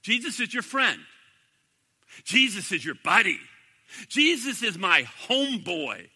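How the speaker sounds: a hint of a breezy preacher, lightly mocking; mock pulpit preacher. Mocking preachers who call Jesus your buddy, lightly hammed-up. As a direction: parrot the feel-good pulpit line. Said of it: "you hear up in the pulpits, people preaching".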